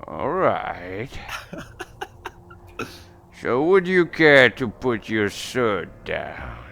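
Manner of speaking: slow, drawn-out polite request; chieftain. Acted. Chieftain asks the player to disarm, slow drawn-out voice. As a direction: take it slowly as the chieftain. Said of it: "And he's just like".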